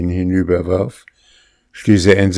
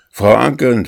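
loud call of the name, pitched up, falling at the end; 6 semitones higher, 6 dB louder than usual. A narrator's reading. Master calling his housekeeper from the doorway, loud call. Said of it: "rief er".

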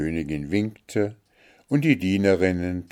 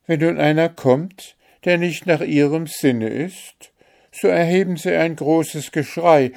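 higher, lively voice of a complaining daughter; higher-voiced storybook daughter, earnest; aggrieved fairy-tale daughter; 7 semitones higher, 7 dB louder than usual. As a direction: pour out the complaint to your mother, pitched up. Story figure Märchen complains to mother.

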